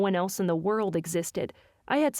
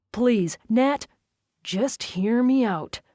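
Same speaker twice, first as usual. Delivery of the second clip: pleading; 3 semitones higher, 5 dB louder, much slower than usual. Acted. Jensen begs her, slowly.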